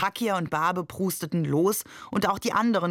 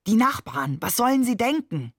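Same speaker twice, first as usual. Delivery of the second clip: worried; 5 semitones higher, 4 dB louder than usual. A narrator's reading. Ali worried about neighbours.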